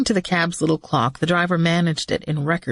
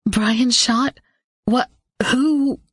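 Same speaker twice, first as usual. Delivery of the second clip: shocked; 7 semitones higher, much slower than usual. Acted. Shocked disbelief.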